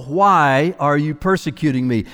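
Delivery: a plain, restrained voice of authority; authority and restraint. Acted. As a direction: hold back, speak with calm authority. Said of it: "such a mix of authority and restraint".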